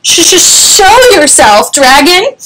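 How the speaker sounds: high, stammering nervous challenge; stutter, then squeak out the demand; scared little storybook knight; squeaky knight. A narrator's reading. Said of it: "squeaked a thin".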